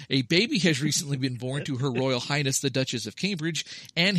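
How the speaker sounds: formal broadcast newsreader voice; news anchor read. Acted. Mock news bulletin read.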